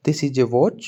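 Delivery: teacher holds up the watch and models the sentence, clear and even; teacher modelling. Shown as a demonstration. Teacher demonstrating the line for the class, clear and even. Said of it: "teacher घड़ी को हाथ में लेकर बोलेगा".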